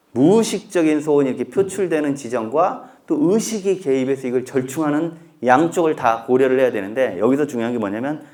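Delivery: ordinary talk, nothing marked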